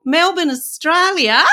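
slow, hammed-up Aussie accent; mock Australian accent. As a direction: ham up an Australian accent, slowly. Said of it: "my Australian accent's so good".

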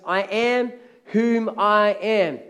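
very slow, weighty declaration; solemn divine declaration. Acted. God tells Moses his name, solemn and drawn out. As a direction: stretch each word out with solemn weight. Preacher voices God naming himself.

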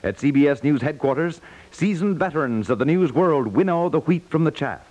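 ordinary delivery

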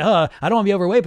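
imitating dieter. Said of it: "and say".

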